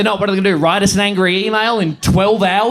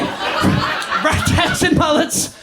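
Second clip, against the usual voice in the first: slow, voiceless rasping echo; slow, hammed-up croaky whisper; strained repeat; 4 semitones higher, much slower than usual. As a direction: draw the words out with hardly any voice.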